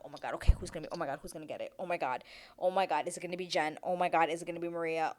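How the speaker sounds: nervous, hushed rush; stressed suspense. Retold or imitated. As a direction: fret under your breath. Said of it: "y'all, I was stressed".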